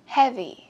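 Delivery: "Heavy" with a strong HEA; careful model "Heavy", tail dropping; stress on first syllable. Shown as a demonstration. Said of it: "Chữ âm một".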